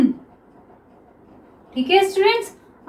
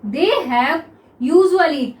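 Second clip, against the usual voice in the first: drawn-out, word by word; teacher dictating slowly; slow dictation; much slower than usual. Shown as a demonstration. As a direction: stretch each word for note-taking. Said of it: "हमने आपको क्या बताया था usually".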